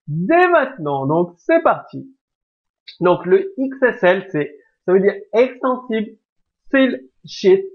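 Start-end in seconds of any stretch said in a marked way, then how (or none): 5.3-7.6 French-accented English. Real, not acted. A teacher reading the English acronym in a French accent. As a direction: spell out the English name in a clumsy French accent. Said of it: "excusez-moi pour mon accent anglais pas terrible".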